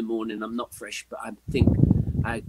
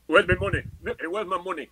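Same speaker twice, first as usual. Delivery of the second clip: mock demand; 5 semitones higher than usual.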